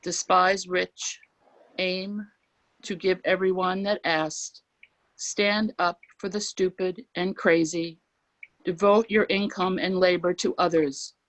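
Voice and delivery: unhurried recital, pausing between lines; poem reading. Acted. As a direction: let each line land with weight. Reads a Whitman poem aloud.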